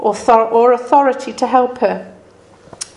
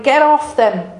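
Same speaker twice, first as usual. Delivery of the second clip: shouted; 4 semitones higher, 3 dB louder than usual. Retold or imitated. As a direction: stress on off, falling. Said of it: "screaming and shouting".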